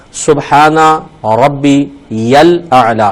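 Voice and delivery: drawn-out, measured tasbih; slow recitation. Shown as a demonstration. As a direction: recite each syllable slowly and carefully. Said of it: "تین بار پھر آپ تسبیح پڑھیں".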